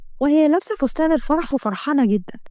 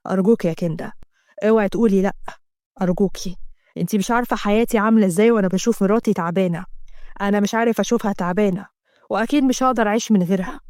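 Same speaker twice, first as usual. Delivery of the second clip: a lower man's voice, begging; a touch of a lower male plea; lightly voiced pleading husband; 4 semitones lower than usual.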